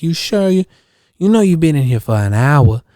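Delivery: lightly imitated neighbor woman; Rochelle. Neighbor worried after his hour in the car, light impression. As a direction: mimic the concerned neighbor, starting high. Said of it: "Rochelle talks like that".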